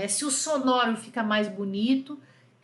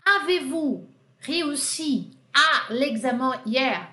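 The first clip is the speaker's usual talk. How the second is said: slow model question; slower than usual. Shown as a demonstration. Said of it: "Aqui eu usei a inversão".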